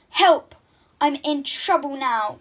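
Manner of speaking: loud high cry for help; wailing. Acted. Princess wails from the pond for help. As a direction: wail it out as you sink. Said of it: "wailed Poppy".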